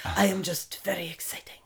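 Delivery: mock European accent fading to a whisper; vague Latin-lover accent. Playing the old-film Latin lover, vague European accent. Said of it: "vague term Latin lover".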